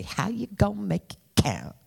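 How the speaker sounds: lightly voiced Chris Rock, quick and punchy; a hint of Chris Rock's quick punchy delivery. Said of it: "say it in my Chris Rock voice".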